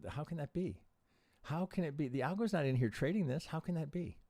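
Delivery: can't believe what the chart is doing; exasperated disbelief. Real, not acted. Streamer baffled by chart, repeating.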